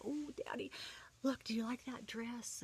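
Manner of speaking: high-pitched eager appeal to dad; girlish delight. Retold or imitated. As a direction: coo over it as a daughter would. Teen shows dad a dress.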